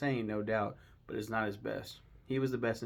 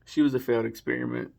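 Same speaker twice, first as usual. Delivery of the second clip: quoted T.I; 7 dB louder, faster than usual. Retold or imitated. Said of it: "and T I go".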